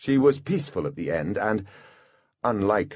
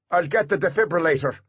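higher-pitched, pressed voice; bodyguard, urgent; 8 semitones higher than usual. A narrator's reading. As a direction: offer a rescue urgently.

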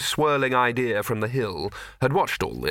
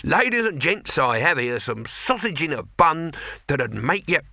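cheerful sales pitch; 5 semitones higher than usual. Acted. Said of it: "said Throat cheerfully".

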